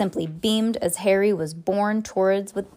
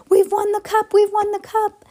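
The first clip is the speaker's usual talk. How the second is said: much higher, louder ecstatic cheering; ecstatic shouting; 13 semitones higher, 5 dB louder than usual. A narrator's reading. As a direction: shout it out in pure joy. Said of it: "voices, tangled together".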